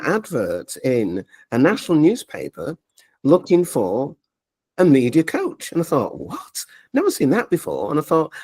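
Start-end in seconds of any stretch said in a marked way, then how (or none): 6.2-7.9 sharp high squeak of disbelief; a startled, hushed "what?"; mock double-take; surprised what. Reacting to the coach advert.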